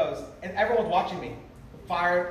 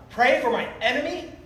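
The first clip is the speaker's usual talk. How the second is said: incredulous, higher-pitched questioning outcry; mock yell rising in disbelief; retold scream; 5 semitones higher than usual. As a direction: throw it back as an outraged question. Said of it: "And I screamed out loud".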